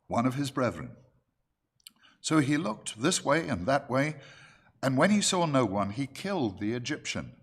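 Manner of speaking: measured, emphatic Bible-reading voice; scripture reading. Acted. Preacher reads the story of Moses to the church, scripture reading. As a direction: read the verses out firmly to the congregation.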